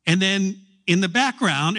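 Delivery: ordinary talk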